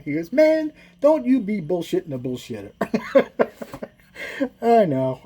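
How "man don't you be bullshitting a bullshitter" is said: higher, put-on Black American accent; imitated Black accent. Driver calls Big Mike's bluff, in a put-on Black American accent. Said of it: "say it with a black accent".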